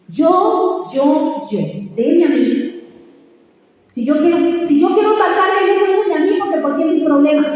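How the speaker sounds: lightly acted self-centred whine; mock selfish insistence. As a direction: mimic someone brushing off advice. Mocking the Western individualist.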